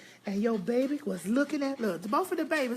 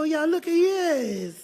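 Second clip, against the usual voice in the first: tearful cry; 4 semitones higher, much slower than usual. Real, not acted. Overcome seeing the dog.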